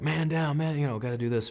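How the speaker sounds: mock calm call. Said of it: "it wasn't like".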